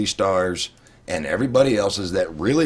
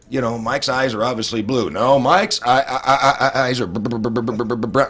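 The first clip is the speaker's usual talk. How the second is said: mock stutter. Shown as a demonstration. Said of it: "and you stutter while you do it".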